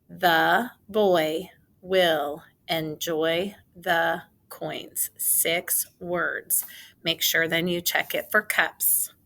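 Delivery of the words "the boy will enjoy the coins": put-on The boy will enjoy the said slowly, coins whispered; slow dictation. Shown as a demonstration. Teacher dictating the sentence slowly for writing. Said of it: "Say it with me".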